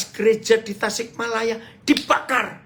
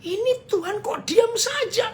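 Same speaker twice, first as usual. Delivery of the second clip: retold angry complaint. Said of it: "Itu saya sudah marah".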